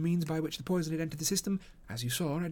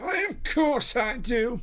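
wheezing, laboured, slow, raised, pitched-up wheeze; 7 semitones higher, 6 dB louder than usual. Narrator reads a man answering a visitor who asks to be recognized, wheezing. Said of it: "he wheezed".

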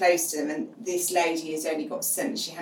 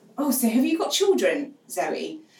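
really loud, high, swooping, carrying voice; 5 semitones higher, 4 dB louder than usual. The speaker, Zoe, retells how somebody asked her a question: retelling a really loud question. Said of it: "asked me really loudly".

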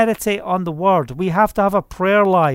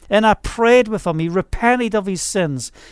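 usual speaking voice

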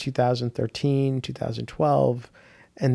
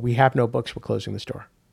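play-acted utterly flat deadpan, no reaction. Recounting showing up at the comic book shop and quoting what was said; retelling a deadpan remark. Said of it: "in the most deadpan way".

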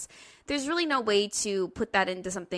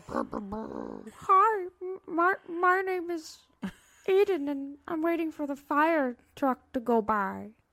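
put-on cartoon toad grandma voice; 9 semitones higher than usual. Introducing themself while waiting for a fire truck to pass, cartoon toad grandma voice. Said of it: "Toad grandma from a cartoon".

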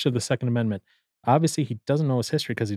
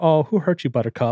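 put-on snarky, mocking tone, dripping sarcasm; 2 semitones higher than usual. Acting out what they would say to a troll target: acting out a sarcastic retort. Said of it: "I would get so sarcastic".

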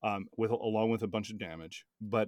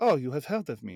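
put-on loud, raised speech in a French accent; 4 semitones higher, 5 dB louder than usual. Retelling an encounter, Lucan Astorbright answering another character, French accent. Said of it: "He has a French accent".

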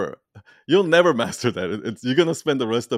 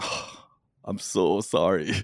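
put-on whispered, drawn-out, soft, slow, heartfelt sincere tone; 3 semitones lower, 5 dB quieter than usual. Speaker recalls apologizing to a woman on stories, retelling a sincere apology. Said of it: "I said it like that".

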